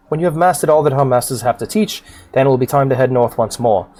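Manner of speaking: formal fantasy mentor, theatrical delivery; solemn warning from a storybook guildmaster; stately quest-giver. Acted. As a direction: counsel the adventurer grandly, mostly at a brisk clip. Voices game character's dialogue.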